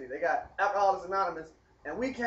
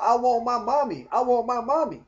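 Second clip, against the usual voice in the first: mock little boy's cry; 4 semitones higher, 4 dB louder than usual. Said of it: "little boy in the room banging his head".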